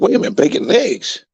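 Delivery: squealing high, slowed-down disbelief; the pig realises it's his bacon and squeals; shocked pig. Acted. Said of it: "He's like".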